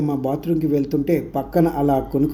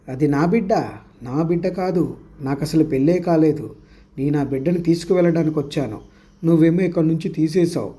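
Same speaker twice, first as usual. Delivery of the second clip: possessed daughter snapping at her mother, lightly voiced; a hint of a ghost demanding the baby; mild mock yelling; 3 semitones higher than usual. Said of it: "అని గట్టిగా తల్లి మీద శ్రీదేవి అరిచింది".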